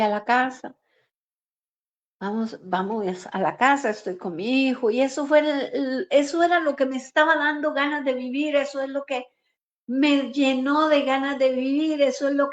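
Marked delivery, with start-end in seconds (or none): 4.9-7.7 crying. Real, not acted. Her son gave her will to live.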